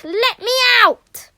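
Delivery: loud, high, pounding demand; angry demand. Acted. Caretaker trapped in shed, shouting to be let out. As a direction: shout through the locked door.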